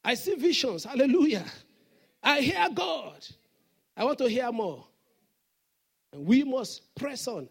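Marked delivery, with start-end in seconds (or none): 0.0-4.9 a hint of showy fake humility; mock false humility. Preacher mocking falsely humble believers. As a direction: pitch up, bragging while acting humble. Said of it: "There's some people, they have false humility".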